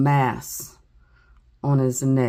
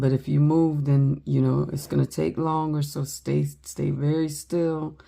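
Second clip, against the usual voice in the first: soothing coax. Retold or imitated. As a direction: gently coax the boy to stay still. Grandma coaxing grandson to stay still.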